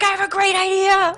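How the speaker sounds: high tempter voice, hammed-up; little party guy. Party guy coming back with his idea, high hammed-up eagerness. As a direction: pitch the scheme in a high silly voice. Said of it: "he'd come back".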